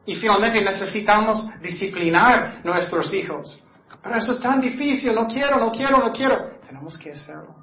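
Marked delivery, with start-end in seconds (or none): 4.0-6.6 higher, fast whining protest; whiny reluctance. Retold or imitated. Preacher mimics a parent avoiding discipline, whining. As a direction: whine like you don't want to. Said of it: "parent reluctant to discipline".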